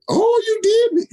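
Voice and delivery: high, slow mock surprise in the GM's nasal voice; mock nasal GM acting surprised; nasally John. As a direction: play the boss faking surprise. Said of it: "John has that nasally voice".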